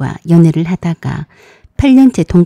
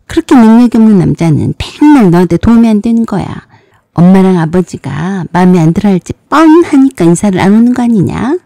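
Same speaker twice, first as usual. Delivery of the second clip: put-on mildly sneering older sister lecturing her sibling; lightly voiced sarcastic big-sister scolding; retold sarcastic scolding; 3 dB louder than usual. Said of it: "허허 웃으며 빈정거리며".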